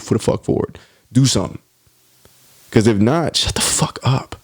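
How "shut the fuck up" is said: whispered under the breath. Real, not acted. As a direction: hiss it out without voice. Whispered after rant.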